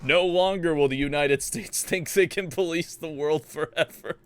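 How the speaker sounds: lightly hammed-up villain declaration; a touch of grandiose villain; villain's speech. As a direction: declaim it like a cult leader's grand boast. Voices the villain's boastful speech.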